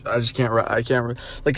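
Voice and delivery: stumbling over the words; stuttering. Real, not acted. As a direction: stutter and restart mid-word. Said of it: "I'm stuttering like a fucking idiot".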